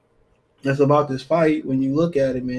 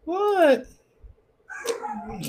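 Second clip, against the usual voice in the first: sudden high startled what; surprised what. Real, not acted. Host spotting his signed-out account, startled. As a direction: caught off guard by the screen, jump up high. Host reacts to website change.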